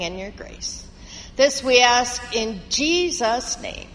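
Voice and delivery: measured, earnest congregational prayer; steady pastoral praying voice. Real, not acted.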